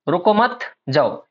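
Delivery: slow रुको मत joined, pause, then जाओ; comma after मत. Shown as a demonstration. Teacher shows meaning turned around, pause after मत. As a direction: join रुको to मत and split off जाओ. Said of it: "इसका मतलब रुको मत, तुरंत निकल जाओ".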